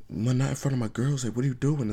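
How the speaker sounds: put-on not in front of my girls; embarrassed girlfriend. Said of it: "It's like".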